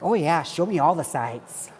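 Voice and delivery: lightly acted, drawn-out tourist enthusiasm; Vegas tourist. Eager tourist to a tour guide, lightly put-on Vegas tourist. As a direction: play a hint of an eager sightseer, slowly. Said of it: "I'll become a Vegas tourist".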